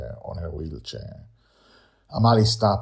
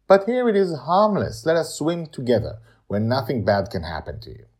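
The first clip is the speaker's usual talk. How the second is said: higher, gently urging; lightly voiced coaxing Madeline; 8 semitones higher, 7 dB louder than usual. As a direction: talk her into it. Madeline coaxes Amali.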